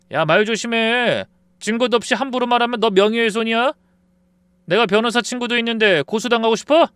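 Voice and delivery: high, loud and menacing; cocky threat. Acted. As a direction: warn him off with a sneer. Friend threatening lawsuit.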